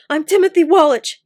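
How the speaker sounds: high, loud, breathless; gasping. A narrator's reading. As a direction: gasp out your name. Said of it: "gasped the young man".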